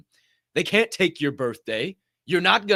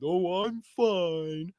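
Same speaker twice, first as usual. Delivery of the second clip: mock fine; 4 dB quieter, much slower than usual. Mocking people who say fine.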